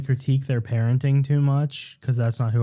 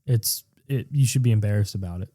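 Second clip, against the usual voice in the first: mock prudish lecture, fast and deadpan; sarcastic preachy mockery. Mocking people who shame women for periods, sarcastic. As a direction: play a scandalised moralist, tongue in cheek.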